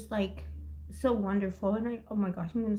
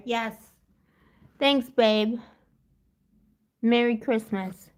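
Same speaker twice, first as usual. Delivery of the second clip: ordinary talk, nothing marked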